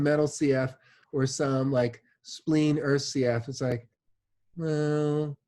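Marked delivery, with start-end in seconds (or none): 4.6-5.3 put-on a patient grumbling in a light British accent. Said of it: "I naturally put a British accent on metal C Fs".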